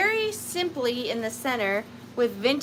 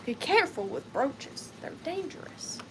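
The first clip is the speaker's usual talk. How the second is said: mock warning; 5 dB quieter than usual. Mock warning about brooches.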